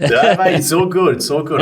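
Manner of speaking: mock American accent, played for a laugh; bad American accent. Host joking with his guest in a bad American accent. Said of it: "I can't do a good American accent".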